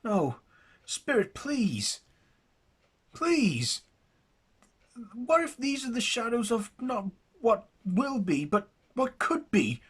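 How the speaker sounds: high, loud, anguished begging; desperate pleading. Acted. Jackson begging the silent spirit for mercy, anguished.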